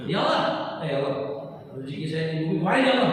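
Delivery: mock-insistent plea with interjections; demonstrating how not to pray; pushy prayer. Shown as a demonstration. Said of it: "jangan begitu".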